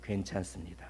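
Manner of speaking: meek, tender, kindly, soft and quiet delivery. Showing a gentle reply to an accusing question, soft, gentle tone. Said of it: "아주 온유하고 부드럽게 복음을 전하는 거예요. 어떻게 해요?".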